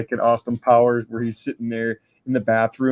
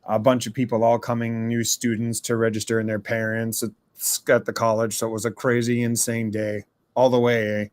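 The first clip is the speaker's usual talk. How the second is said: odd Canadian-style voice. Acted. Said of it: "I've never heard him talk quite like that".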